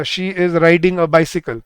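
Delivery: very slow, "riding" stressed; slow dictation. Shown as a demonstration. Teacher dictating example to students. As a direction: spell it out slowly. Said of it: "जैसे मैं बोलता हूँ".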